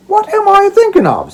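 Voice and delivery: high, loud self-reproach; sudden realization. Acted. Old father exclaiming at his own slowness. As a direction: exclaim at your own forgetfulness.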